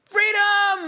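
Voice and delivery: high, loud battle cry; shouting Freedom. Retold or imitated. Preacher quoting William Wallace, loud battle cry. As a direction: bellow it like a rebel leader. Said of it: "William Wallace shouting".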